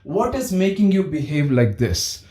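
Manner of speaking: caring parent asking gently; gentle what question. Shown as a demonstration. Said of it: "learn to ask the what question".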